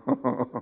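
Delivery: low, soft chuckle; brief, quiet laugh. Real, not acted. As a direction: laugh quietly at your own prediction. Pastor chuckles at his grim prediction.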